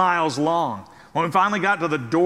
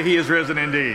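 laughing demo; 3 semitones lower, faster than usual. Shown as a demonstration. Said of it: "You say".

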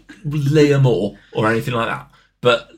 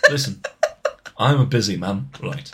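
put-on weary, restrained Scouse accent; Constantine; 3 semitones lower than usual. Constantine complaining to podcasters, understated Scouse. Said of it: "he'd say something like that".

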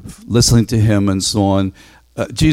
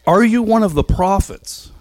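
questioning delegation; 10 semitones higher than usual. Acted.

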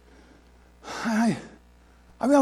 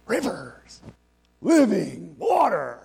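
proclaiming shout; 3 dB louder, much slower than usual. Real, not acted. Sermon climax, rivers of water.

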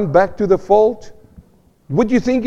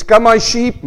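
shepherd calling sheep; 5 semitones higher than usual. Shown as a demonstration. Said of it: "Maybe like that".

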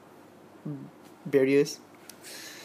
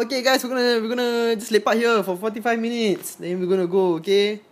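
higher, laughing crowd address; laughing announcement; 7 semitones higher than usual. Retold or imitated.

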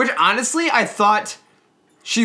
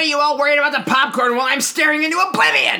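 mock gloomy Merle; 7 semitones higher, faster than usual. Voicing Merle the projectionist.

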